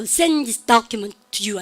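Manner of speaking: "send" and "document" drawn out, "to you" tucked in; stress on content words. Shown as a demonstration. Teacher picking out content words, stressed "send" and "document". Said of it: "내용어를 크게".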